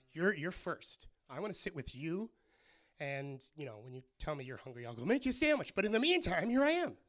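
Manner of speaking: imitated devotion building to loud declaration; devoted attitude. Mary telling Jesus he comes first, building devotion. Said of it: "He liked Mary's attitude of saying".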